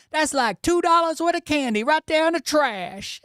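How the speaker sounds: put-on kid's high-pitched take on a sitcom accent; imitated TV character accent. Dad quoting his kid copying the show, high put-on accent. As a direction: mimic a child putting on a Brooklyn sitcom accent, high. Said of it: "Where did you learn that accent?".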